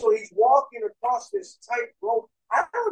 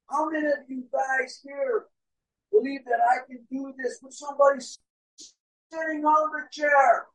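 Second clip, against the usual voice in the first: acted showman's call, slightly raised; calling to a crowd; 3 semitones higher than usual. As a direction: put the challenge to the whole crowd. Daredevil calls out to crowd.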